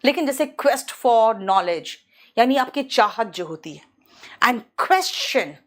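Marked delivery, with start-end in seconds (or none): 0.6-1.9 slow demo. Shown as a demonstration. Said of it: "क्वेस्ट जैसे होता है". 4.4-5.5 slow teaching read; very slow demo. Shown as a demonstration. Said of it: "Q for question".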